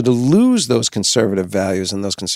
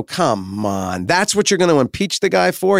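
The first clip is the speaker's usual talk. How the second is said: incredulous objection; 4 semitones higher than usual. Acted. Guest objects to Clinton's impeachment, incredulous. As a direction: scoff at such a weak charge.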